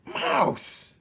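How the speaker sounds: high, loud gleeful squeal of "Mouse!"; joyful rat cry. Acted. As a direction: sing it out with glee. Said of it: "sang out one rat joyfully".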